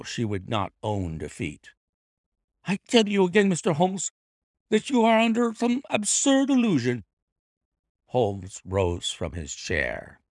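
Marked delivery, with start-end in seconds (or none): 2.6-7.0 lightly voiced, higher defiant lady; lady denying everything to the detective, a touch higher; Lady Hilda's voice. A narrator's reading. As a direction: hold your ground, refusing defeat.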